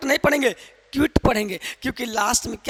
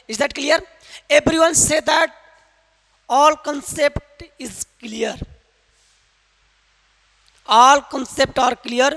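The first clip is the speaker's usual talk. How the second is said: slow English; 3 semitones higher, much slower than usual. Real, not acted. Teacher switching to slow English.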